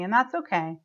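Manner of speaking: measured self-talk with long pauses; tapping script. Shown as a demonstration. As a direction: speak each phrase for others to repeat, pausing after each. Leads positive tapping round.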